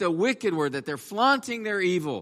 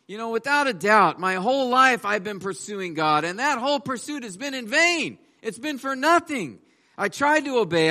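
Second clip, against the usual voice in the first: Asaph's lament; 4 semitones higher than usual. Acted. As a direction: pour out frustration at unfairness. Preacher voices Asaph's bitter complaint.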